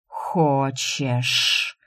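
low, cold, hollow voice of another being; empty, cold voice. Acted. The boy reveals his true self to Shu, empty cold voice. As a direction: drop the warmth and turn to cold menace. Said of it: "совсем другим голосом, пустым и холодным, шепнул".

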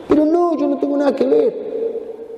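high, slow, shrinking denial; scared denial. Acted. Peter denying Jesus, high and frightened. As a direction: back away from it nervously.

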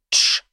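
hissed shush to silence him; a quick warning hiss; sharp shush. Acted. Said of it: "шикнул на него Ворчун". (резко шикнуть)

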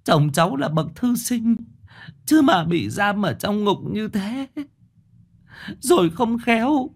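high, cringing village woman begging; a poor wife begs the chief to save her husband; humbly pleading wife. Acted. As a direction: grovel before the chief, slowing at the end. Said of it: "Thị Khóa khúm núm".

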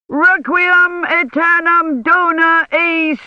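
high, slow, loud chanted roar; fevered priest roaring the requiem; delirious roar. A narrator's reading. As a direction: roar the Latin like a madman at Mass. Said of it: "he roared".

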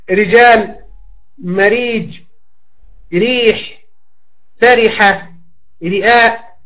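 رجال with a thin, light r on the i vowel; teacher giving model words with a light r. Shown as a demonstration. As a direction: carefully sound the light r in ريح and مريج. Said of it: "وإذا كانت مكسورة مثل".

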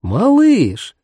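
high cracked exclamation; old cracked voice calling out. A narrator's reading. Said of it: "воскликнула она надтреснутым голосом".

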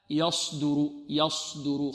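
soft يصدر with lips pursed on the ص; wrong rounded s. Shown as a demonstration. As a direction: mistaken lip-rounded ص in يصدر. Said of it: "خطأ".

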